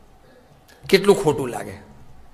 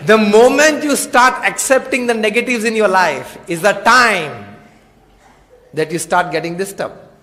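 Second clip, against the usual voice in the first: slow sermon maxim; much slower than usual. Acted. Preacher's slow English maxim.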